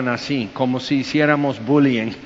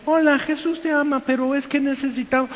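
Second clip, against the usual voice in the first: high, quick, sweet little Christian voice; timid little Christian; 10 semitones higher, faster than usual. Retold or imitated. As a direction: play a meek eager believer, fast. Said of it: "Y viene un cristianito". (cristianito tímido con voz aguda y rápida)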